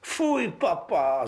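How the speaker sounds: high, slow, disgusted princess; spoiled princess. Acted. Spoiled princess complaining to her papa, high disgusted whine.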